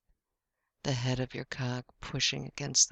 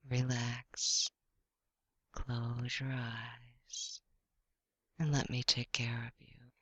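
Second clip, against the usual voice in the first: right in your ear; 4 dB quieter than usual. Acted. Lulling listener to relax.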